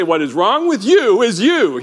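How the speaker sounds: playful jab at the crowd, stressing you; cheeky mock reply. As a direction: tease them by turning it back. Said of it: "I think I heard someone say".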